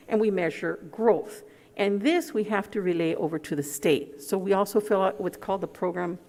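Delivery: muffled behind a face mask; through a face mask. Real, not acted. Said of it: "It's hard to talk with a, a mask on".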